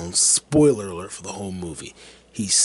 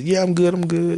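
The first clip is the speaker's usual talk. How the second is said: high, loud imitated reassurance; raised, much higher retold reply; calling back; 9 semitones higher, 6 dB louder than usual. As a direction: call back to the unseen courier. Customer calling back to courier.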